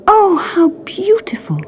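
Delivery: breathless high whisper. A narrator's reading. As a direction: whisper in wonder. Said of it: "she whispered".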